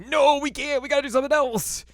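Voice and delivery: put-on high-pitched girl voice. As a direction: squeak it out like a frantic girl. Voicing Kagome high.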